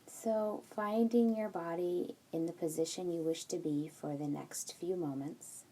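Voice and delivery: unhurried meditation guide, leaving room between instructions; guided meditation. Acted. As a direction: guide them gently into settling the body, phrase by phrase.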